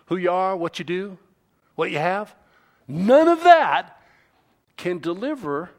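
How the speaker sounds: insistent sermon delivery; emphatic preaching. Real, not acted. Preaching with raised voice.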